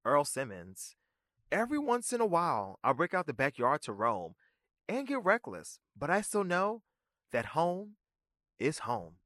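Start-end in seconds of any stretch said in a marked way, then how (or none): 1.5-9.2 lightly voiced lyric quote, starting high; quoting a rapper's lyric. Reciting a rapper's words as a tribute, lightly voiced. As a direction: recite the rap line as a tribute. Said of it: "in the words of the late, great rapper".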